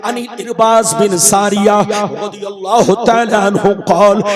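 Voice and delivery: sonorous preacher's chant, rising in the middle; hadith recitation. Real, not acted. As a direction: recite sacred text, stretching the phrase endings.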